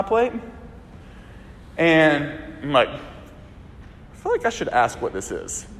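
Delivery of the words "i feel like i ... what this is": whispered worry. Retold or imitated. Guest at family dinner eyeing strange meat, slow nervous whisper.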